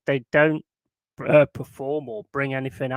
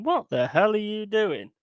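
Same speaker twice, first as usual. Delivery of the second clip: higher-pitched mock wife; imagined angry wife; 8 semitones higher than usual. Wife walks in on him undressed, mock outrage. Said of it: "Your missus comes in going".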